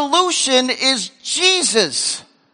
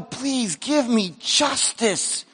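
slow plea; 7 dB quieter, much slower than usual. Retold or imitated.

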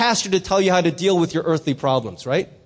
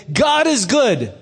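church call; 3 semitones higher, slower than usual. Retold or imitated. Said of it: "start all the services by saying".

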